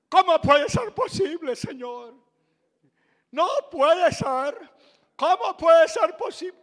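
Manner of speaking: loud disbelieving complaint at God; loud complaining protest to God in the metro. Retold or imitated.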